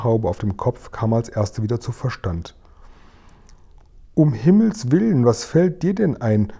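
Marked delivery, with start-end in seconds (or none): 4.1-6.5 indignant outburst, pitched high; angry scolding. A narrator's reading. Maid scolds the little girl on the windowsill, angrily. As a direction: scold the child in a high, heated voice. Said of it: "schimpfte sie wütend Sophiechen an".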